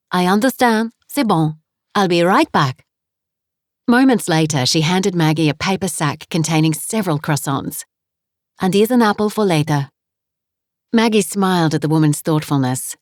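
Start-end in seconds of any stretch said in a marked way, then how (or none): 0.1-2.8 put-on 2 cheerful landlady with a heavy French accent; 3 greet her warmly in thick French-accented English; 4 French guest-house owner, heavy French accent. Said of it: "her accent was heavy". 8.6-9.9 put-on 2 cheerful landlady with a heavy French accent; 3 greet her warmly in thick French-accented English; 4 French guest-house owner, heavy French accent. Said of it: "her accent was heavy".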